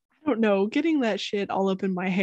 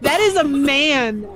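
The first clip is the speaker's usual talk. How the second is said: mock disgust; 5 semitones higher than usual. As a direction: drag out the sickly horror. Gawking at a creepy figure.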